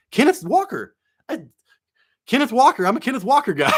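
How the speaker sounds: high, loud sudden remembering; excited recall. Real, not acted. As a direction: blurt the name as it clicks. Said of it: "too much shit in my mind".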